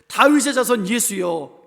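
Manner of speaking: loud, slow imploring call; crying out. Acted. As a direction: call out loudly to Jesus, drawn out. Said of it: "이렇게 소리 지르시-, 지르고 있는 거예요". (크고 길게 부르짖듯)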